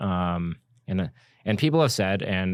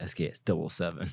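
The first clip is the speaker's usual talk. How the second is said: put-on attitude, soft, slow, mocking; 8 dB quieter than usual. Act out how the other person says a model name every time, imitating someone's attitude. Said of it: "say it with an attitude every single time".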